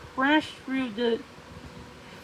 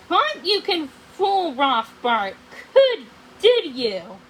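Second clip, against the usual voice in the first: gloating threat; 2 semitones higher, 5 dB louder than usual. Acted. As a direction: gloat over her.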